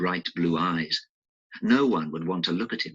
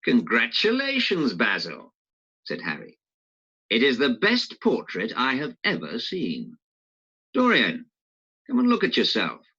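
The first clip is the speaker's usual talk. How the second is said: lightly voiced Harry, raised a little higher; a hint of a cheerful young lord; 5 semitones higher than usual. Harry praising the portrait, in a lightly raised voice.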